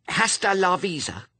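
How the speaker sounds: put-on quick, high-pitched child's afterthought; added quickly. A narrator's reading. Head torturer adds Spanish for effect, quickly. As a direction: tack it on hurriedly, high-pitched. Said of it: "she added quickly".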